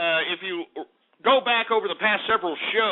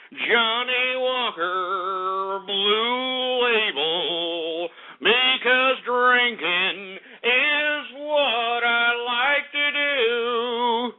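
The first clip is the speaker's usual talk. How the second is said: slow, drawn-out mock English accent; hammed-up English accent savouring each word; 3 semitones higher, much slower than usual. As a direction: toast like a posh Englishman, in an English accent, very slowly. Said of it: "with my English accent".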